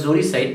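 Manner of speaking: জোরিসাইড said starting with a "zo" sound; pronunciation demo. Shown as a demonstration. Teacher shows the class how the word is pronounced, জোরিসাইড opening on "zo". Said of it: "ইউ দিয়ে উচ্চারণ হলো, উচ্চারণটা হবে".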